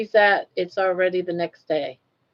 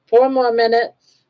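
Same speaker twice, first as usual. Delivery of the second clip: louder announcing call; excited countdown; 4 semitones higher, 6 dB louder than usual. Real, not acted.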